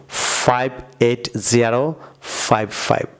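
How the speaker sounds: slow American drill, জিরো not ও, ফাইভ ফাইভ; American number style. Shown as a demonstration. Teacher showing viewers the American way: জিরো and ফাইভ ফাইভ. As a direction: say ফাইভ এইট জিরো ফাইভ ফাইভ with "জিরো" and each ফাইভ said separately. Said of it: "আমার সাথে বলুন".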